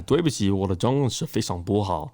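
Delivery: Mandarin with an American accent; foreigner mandarin. Shown as a demonstration. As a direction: speak Mandarin like a learner. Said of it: "Can you throw it down a little bit?".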